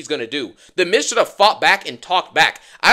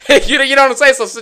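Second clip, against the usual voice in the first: laughing; 8 semitones higher, 8 dB louder than usual. Real, not acted. Laughs mid rant.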